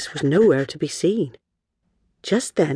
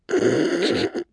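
muffled, wordless snicker; stifled giggle; 2 semitones lower than usual. Acted. Girl and dog amused by the queen's title, stifled giggle. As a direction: hold back a giggle. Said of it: "stifled a giggle".

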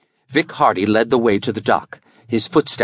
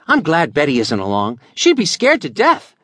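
a lightly voiced eager boy, higher; teasing kid grinning in the dark; boyish Billy voice; 7 semitones higher than usual. Billy teasing Jack about Betty, lightly voiced boy.

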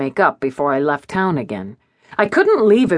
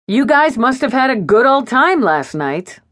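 bright; 7 semitones higher than usual. A narrator's reading. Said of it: "I said brightly".

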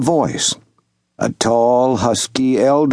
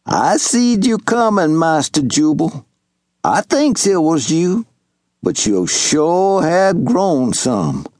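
higher, lightly voiced old Southern servant; old servant calling out; 5 semitones higher than usual. Old servant Wash hailing young Master Jubal, lightly voiced. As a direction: call across the clearing in a gentle old man's voice.

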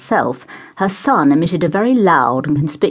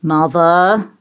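one firm, louder warning word; louder warning to his mother; cautioning; 5 dB louder than usual. Acted. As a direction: warn her off with a single word. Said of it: "he cautioned".

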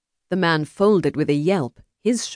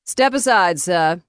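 raised, louder command; sharp order; 3 semitones higher, 5 dB louder, slower than usual. Acted. Duelist ordering the meddler aside, commanding. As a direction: order him out of the way.

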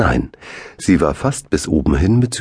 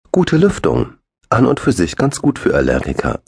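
higher, know-it-all big brother; brother Arne's voice; 8 semitones higher than usual. A narrator's reading. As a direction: play the bossy older brother inspecting seats. Arne prüft kritisch die Plätze. (höhere, altkluge Stimme des großen Bruders)

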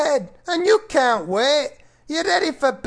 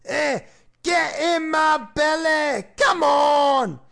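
hammed-up film character catchphrase; fat guy off Austin Powers; 3 semitones higher, slower than usual. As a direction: bellow it like a greedy Scottish brute. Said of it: "like that fat guy off Austin Powers".

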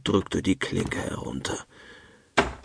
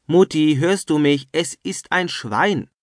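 higher, louder, urgent calls; calling out; 8 semitones higher, 3 dB louder, slower than usual. A narrator's reading. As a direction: rouse a fainting wife, urgently. Opa rousing his fainting wife.

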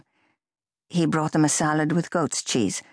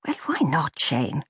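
defensive. Acted. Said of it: "she asked him defensively".

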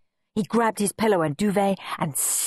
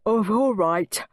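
words stretched by a yawn; stifling a yawn; 4 semitones higher than usual. A narrator's reading. Sleepy Dad gives in to Peter, stifling a yawn. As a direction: yawn through it, higher than usual. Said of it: "stifling a yawn".

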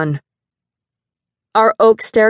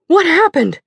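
high, loud call up the stairs; shouted; 10 semitones higher, 4 dB louder than usual. Acted. Mother shouting up to her daughter, a loud worried call. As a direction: shout the question up from below. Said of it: "shouted Mama again".

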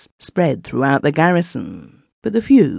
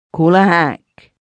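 a strained, hoarse plea, slow and louder; hoarse begging; 3 semitones higher, 5 dB louder, slower than usual. A narrator's reading. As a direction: beg for a cab hoarsely, shaken. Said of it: "the soldier hoarsely begged".

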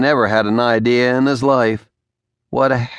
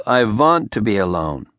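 corrective "I want to be alone" with V in want; Garbo accent demo; 2 semitones lower than usual. Shown as a demonstration. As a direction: show how Garbo says it, W as V. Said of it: "Your accent needs work".

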